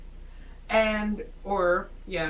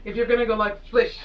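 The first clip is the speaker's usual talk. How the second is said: mock indignation. Real, not acted. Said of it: "I am personally insulted".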